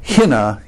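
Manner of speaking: hina said slowly, HEE-nuh with a long ee; slow hina, first syllable like he; Greek hina. Shown as a demonstration. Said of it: "it's hina".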